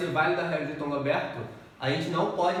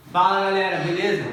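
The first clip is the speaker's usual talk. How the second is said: upbeat greeting; 7 dB louder than usual. Real, not acted. Greeting opening a new video.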